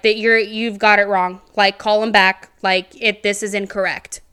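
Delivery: insistent retold disbelief; in denial. Teacher insisting the office has it wrong, in denial. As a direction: push back, refusing to accept the news. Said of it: "In denial, I was, okay?".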